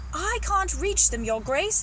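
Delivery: drawn-out call from up a ladder; calling back. Acted. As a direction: call back down to your master. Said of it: "the gardener called back".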